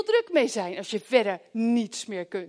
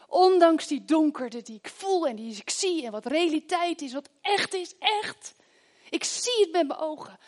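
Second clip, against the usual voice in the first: fervent prayer; 5 semitones higher than usual. Pretend. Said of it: "dat we zeggen".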